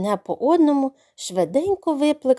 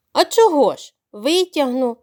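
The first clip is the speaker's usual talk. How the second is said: willing; 2 semitones higher, 3 dB louder than usual. Acted. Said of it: "охоче відповіло каченя".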